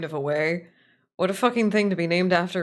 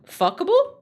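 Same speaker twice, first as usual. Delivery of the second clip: shrill high squeak of a question; high squeal; 14 semitones higher, 6 dB louder than usual. Acted. Streamer joking about the AI copy, in a high squeal.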